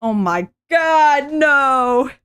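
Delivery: slow, loud shocked cry. Real, not acted. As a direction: gasp it out in dismay. Reacting to the comic.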